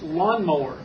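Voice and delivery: "Lawn mower" quick and joined; said fast. Shown as a demonstration. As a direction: run it together as one word. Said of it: "I want you to say it fast".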